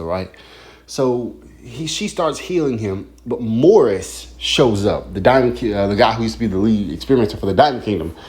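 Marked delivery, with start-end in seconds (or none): 3.2-8.2 jittery, tripping over words; rushed, jittery delivery. Real, not acted. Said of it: "excuse my, uh, jittery".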